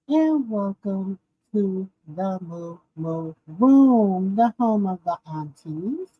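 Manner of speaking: slow, drawn-out welcome; slow welcome to the Moo Moo Room; show host intro. Acted.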